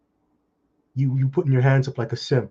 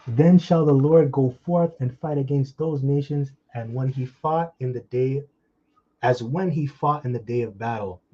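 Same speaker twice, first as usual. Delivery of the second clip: firm Bible recitation, settling toward the end; emphatic, deliberate preacher's reading; scripture reading. Real, not acted. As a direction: read the verse out with force, then ease off. Reads scripture aloud.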